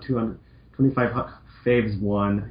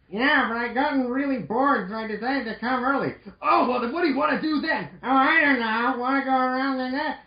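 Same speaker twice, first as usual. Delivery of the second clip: surfer dude voice; 14 semitones higher than usual. Acted. Mega Man greeting Roll as a laid-back surfer dude. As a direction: play a chill surfer dude. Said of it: "the surfer voice".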